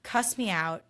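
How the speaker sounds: ranting back at a rude driver; imagined angry retort. Retold or imitated. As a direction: tell off the driver who fled. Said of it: "it made me so mad".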